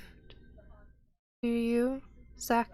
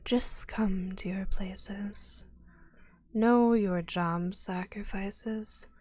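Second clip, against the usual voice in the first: slow, hushed whisper; whispering acolyte; slower than usual. Acted. New acolyte whispering orders at the party. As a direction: breathe each word slowly, barely voiced. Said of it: "A fourth one appears between them and goes".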